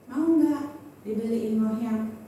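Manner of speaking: soft-spoken husband's offer, lightly acted; kindly asking. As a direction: imitate a considerate, unhurried offer. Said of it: "Nanyanya baik".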